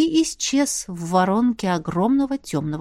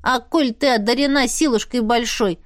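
plain reading voice

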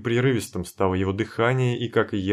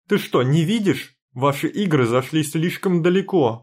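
angry shouting; 7 semitones higher, 5 dB louder than usual. Acted. Heroine confronts Timofey, shouting.

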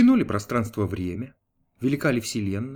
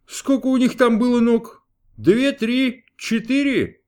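loud, high, impatient questioning of a servant; demanding God; 9 semitones higher, 5 dB louder, slower than usual. A narrator's reading. God grilling archangel Gabriel, loud and impatient. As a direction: fire off the count like a test.

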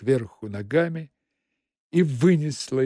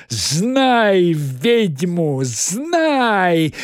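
drawn-out howling witch voice, louder; 4 semitones higher, 4 dB louder, much slower than usual. Acted. Margarita clawing Magarych's face, howling witch cry. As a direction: howl it like an enraged witch. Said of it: "завывая".

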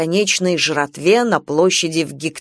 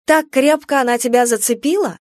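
higher, bitter jealous wife; jealous jab, higher; 6 semitones higher than usual. Acted. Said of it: "Супруга". (ревнивый упрёк)

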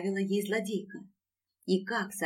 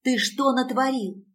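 louder and higher, demanding; a louder, shocked question; 5 semitones higher, 5 dB louder than usual. A narrator's reading. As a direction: raise the voice in alarm. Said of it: "Продолжила громче".

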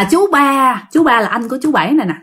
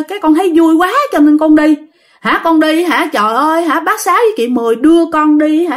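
raised pitch, eager acted account; excited retelling; 5 semitones higher than usual. Revived uncle tells who took him out to play, eagerly. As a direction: recount it with lifted, mild excitement.

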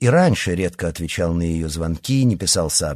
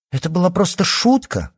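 sharply higher, defensive exclamation; exclaiming; 11 semitones higher than usual. A narrator's reading. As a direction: blurt it out in shock. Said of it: "воскликнула она". (высокое возмущённое восклицание)

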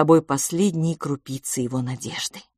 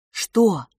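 ordinary delivery

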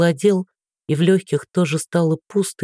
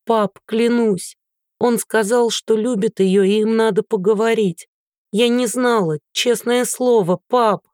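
tearful pleading; 6 semitones higher than usual. Acted. Daughter swears to her father, high tearful plea. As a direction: swear it's true, voice lifted and pleading.

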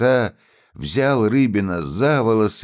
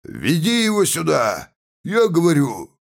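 frenzied yell; 10 semitones higher than usual. A narrator's reading. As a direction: bellow it, beside yourself. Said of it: "исступлённо орал".

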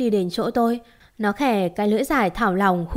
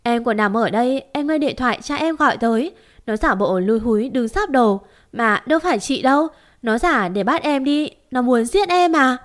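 tearful denial; 3 semitones higher than usual. Acted. To sister Hồng, crying and insisting it was the demon. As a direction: shake it off through tears. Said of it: "Tôi lắc đầu khóc lóc".

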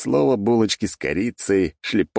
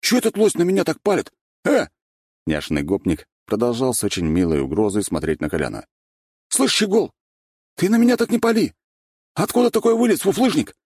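high, cocky street-tough swagger; gopnik voice; 11 semitones higher, 3 dB louder than usual. A narrator's reading. Sweet boy faking a gopnik to newcomers, cocky swagger. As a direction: play a fake tough guy from the block. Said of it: "Голос Валентина тут же стал нормальным".

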